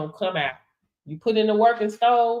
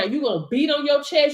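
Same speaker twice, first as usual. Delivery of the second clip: usual speaking voice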